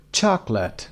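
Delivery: "Chocolate" as CHOC-late, first beat strongest; stress on first syllable. Shown as a demonstration. Teacher showing word stress, first syllable of "Chocolate" stressed. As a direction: punch the start of "Chocolate", let it fall. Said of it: "The first syllable is stressed".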